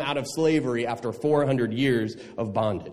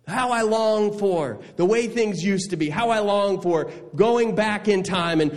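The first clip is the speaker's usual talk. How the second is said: higher-pitched, hammed-up longing; mock nostalgia; 6 semitones higher than usual. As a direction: pine theatrically for old days. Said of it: "Any of you guilty of saying that?".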